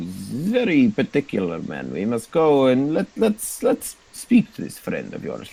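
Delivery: lightly voiced drow, scheming; drow boss. Drow leader replies.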